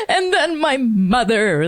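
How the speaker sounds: overdone actor's weeping, played for laughs; mock fake crying. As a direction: act out an over-the-top tearful reading. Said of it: "I was gonna fake cry".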